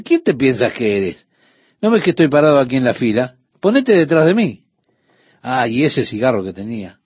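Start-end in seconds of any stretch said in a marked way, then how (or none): 0.0-4.6 retold angry confrontation. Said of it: "Realmente estaba enfurecido".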